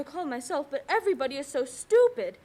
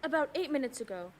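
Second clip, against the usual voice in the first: tearful fear. Acted. Frightened bedridden woman reports murder plot.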